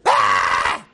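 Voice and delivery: loud low cry of wonder; loud awestruck cry; awed cry at the sky. Retold or imitated. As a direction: gasp aloud in awe at the morning sky. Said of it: "look up at the sky and say".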